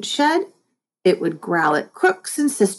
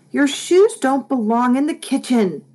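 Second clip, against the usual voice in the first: scolding call; 6 semitones higher than usual. A narrator's reading. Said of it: "yelled Mom".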